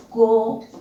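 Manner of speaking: "cometa" spaced as co... me... ta; syllable by syllable. Shown as a demonstration. Teacher introduces a three-syllable word, syllable by syllable. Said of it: "tenemos aquí trisílaba".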